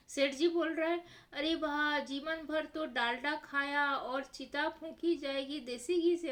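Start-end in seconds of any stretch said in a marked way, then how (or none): 1.3-6.3 sarcastic outrage. Acted. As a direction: scoff at the irony. Seth indignant at ghee cost. (सेठ जी घी के खर्च पर ऊँची व्यंग्य भरी आवाज़ में)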